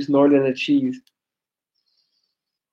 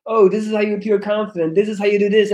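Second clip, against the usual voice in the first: mocking guru; 3 semitones higher than usual. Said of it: "telling you how to live your life".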